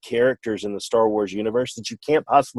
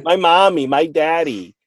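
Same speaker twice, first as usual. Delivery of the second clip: higher, louder mock whine about mommy and daddy; whiny Kylo Ren; 5 semitones higher, 3 dB louder, slower than usual. Mocking Kylo Ren to the co-host in a whiny voice. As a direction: whine like a spoiled boy villain. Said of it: "a whiny little female dog".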